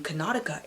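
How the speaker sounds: Connaughton said as "kə-NAH-tə-kə"; odd pronunciation. Shown as a demonstration. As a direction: mangle Connaughton on purpose. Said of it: "Yes, I said Connaughton".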